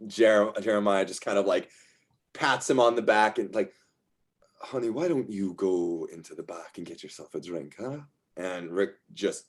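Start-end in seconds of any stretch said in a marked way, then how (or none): 4.6-8.0 soothing. Acted. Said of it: "the soothing voice of his partner".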